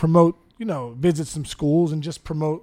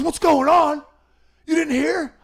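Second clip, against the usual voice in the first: high, loud mock-kid excitement; excited kid; 10 semitones higher, 4 dB louder, slower than usual. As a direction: play a kid bursting with news. Acts out excited running kid.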